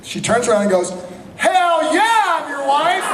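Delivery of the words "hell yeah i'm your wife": much higher voice, brash and cheeky; playful actress. Retold or imitated. Tricia answers the actor across the party: high cheeky reply. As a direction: play along as the sassy co-star.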